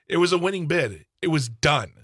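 emphatic, indignant insistence; real anger. Real, not acted. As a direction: drive each short statement home angrily. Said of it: "I'm so mad".

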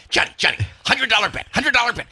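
Rudy Giuliani. Retold or imitated. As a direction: lightly imitate someone pushing a bet. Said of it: "He's just like Rudy Giuliani when he talks".

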